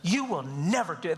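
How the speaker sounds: low, stern dad warning, no shouting; scary voice. Shown as a demonstration. Dad holds his child close to warn him, scary voice. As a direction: demonstrate a scary voice without hollering. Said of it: "It's just scary voice".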